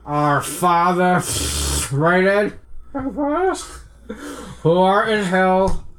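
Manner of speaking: put-on drunk voice. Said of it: "He fell asleep. And what a drunk".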